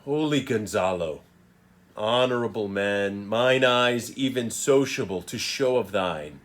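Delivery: measured Prospero with long, weighted pauses; deliberate theatrical verse reading; Shakespearean recitation. Acted. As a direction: recite haltingly, building on the wrong, then easing into forgiveness. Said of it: "So let me give it a read".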